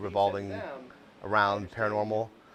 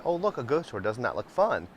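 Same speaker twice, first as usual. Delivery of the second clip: bright, eager pitch jump on "Oh, look"; excited wife; 5 semitones higher than usual. Retold or imitated. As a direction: pitch it up like a thrilled spouse. Wife's excited suggestion at breakfast.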